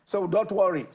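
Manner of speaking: a hint of the helpful policeman; reassuring policeman. Policeman promises boy boxing lessons, lightly acted reassurance. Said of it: "one policeman came and met him".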